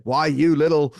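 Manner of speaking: half-hearted impression of an exasperated cartoon dad; Homer Simpson. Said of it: "as Homer Simpson said".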